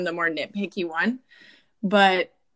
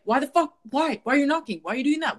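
higher, exasperated string of whys; fed up with the intrusion; annoyed at someone knocking, mock rant; irritated rant; 6 semitones higher than usual. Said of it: "I'm just like".

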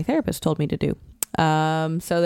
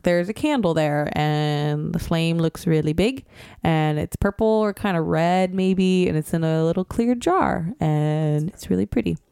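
slow describing demo. Shown as a demonstration. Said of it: "I'm just like".

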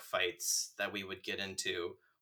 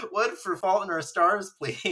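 high, louder put-on voice; furtive moviegoer impression; 8 semitones higher, 5 dB louder than usual. Teasing a friend for going to see the movie, put-on moviegoer voice. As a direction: imitate a disguised ticket buyer, high and over the top. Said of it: "you're saying".

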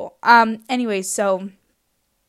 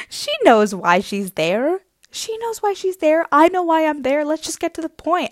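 laughing; 8 semitones higher, 6 dB louder than usual. Retold or imitated. Laughing, mock knowing voice.

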